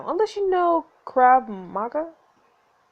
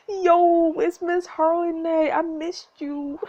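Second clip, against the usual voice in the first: delighted greeting; 6 semitones higher, slower than usual. Real, not acted. Delighted at seeing character return.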